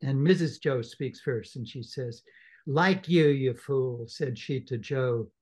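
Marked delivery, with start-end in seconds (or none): 2.7-4.1 loud, sharp scolding wife; scolding sister. Acted. Mrs Joe loudly scolding Joe over the holiday. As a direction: berate the fool husband.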